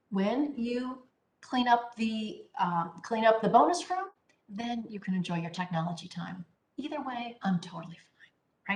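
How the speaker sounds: calm parental when-then, indifferent to the outcome; calm, without emotion. Shown as a demonstration. Parent telling a child to clean the bonus room, calmly indifferent. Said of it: "say the when then in a calm voice and without emotion".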